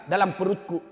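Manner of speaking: loud, high, desperate pleading; pleading scream. Retold or imitated. Mother screams at the Prophet to spare her son. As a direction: cry out to stop them, begging. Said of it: "ibunya berteriak".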